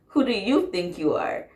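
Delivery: scoffing at the ex, repeating him through laughter; mocking echo. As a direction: throw his words back at him with a laugh. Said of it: "I'm like".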